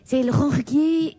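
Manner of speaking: put-on Brussels accent. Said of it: "avec les R difficiles".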